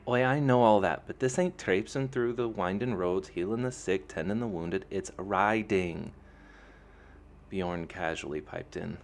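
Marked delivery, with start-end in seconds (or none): 0.1-6.1 loud, high Lanrine brogue, slowing on the last words; exasperated Lanrine friend, loud; Lanrine scolding. A narrator's reading. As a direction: lecture him loudly in a thick Lanrine accent. Fiona scolds Awen's sandals.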